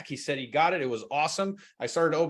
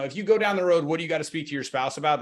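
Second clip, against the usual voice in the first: quick, lightly exasperated challenge; hurried question with a touch of impatience; mildly frustrated; faster than usual. Shown as a demonstration. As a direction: demo a frustrated salesperson's pushback. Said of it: "that's a frustrated objection handler".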